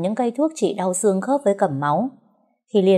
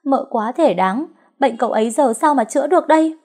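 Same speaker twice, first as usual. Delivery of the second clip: crying; 7 semitones higher, 5 dB louder than usual. A narrator's reading. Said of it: "ôm chặt đầu khóc sướt mướt".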